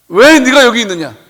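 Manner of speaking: stern divine voice asking why; God's rebuke. Acted. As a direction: rebuke him from above. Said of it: "하면서 책망하는 소리".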